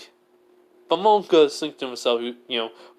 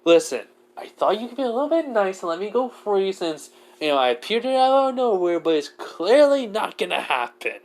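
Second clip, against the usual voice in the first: exasperated; 5 semitones higher than usual. Acted. Mad character argues to be freed.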